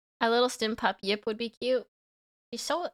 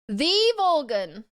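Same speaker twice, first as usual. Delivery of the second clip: dramatic title voice; 5 semitones higher, 5 dB louder, slower than usual. Shown as a demonstration.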